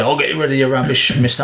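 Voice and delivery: overdone tradesman voice. Retold or imitated. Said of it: "Oh, no, they don't talk like that".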